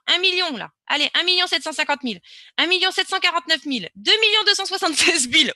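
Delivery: calling out ever bigger sums, rising in pitch and volume; building excitement. Real, not acted. Presenter watching huge live transactions pop up, building excitement. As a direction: build to a high, loud peak on the last figure.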